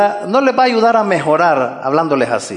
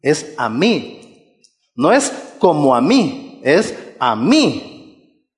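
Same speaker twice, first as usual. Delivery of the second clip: the Lord, quietly; 4 semitones lower than usual. Retold or imitated. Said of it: "Sino que va a decir".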